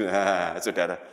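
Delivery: usual speaking voice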